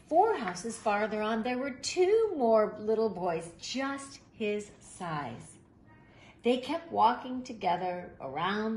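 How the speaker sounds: put-on reading a picture book aloud to children; gentle, even storyteller read; story narration. A narrator's reading.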